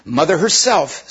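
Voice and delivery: pushing each word out against resistance; with difficulty. A narrator's reading. Diggory struggles to answer the witch, words forced out slowly. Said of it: "getting the words out with difficulty".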